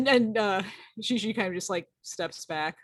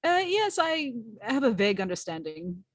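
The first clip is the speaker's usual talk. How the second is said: in-character reply; 3 semitones higher, 4 dB louder than usual. Acted. Character answers the Commodore.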